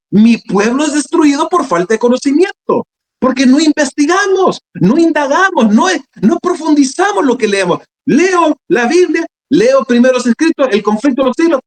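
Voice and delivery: high, exhorting sermon voice; fervent preaching. Real, not acted. Preacher chiding brethren who don't study scripture, fervent preaching. Preaches against shallow Bible reading.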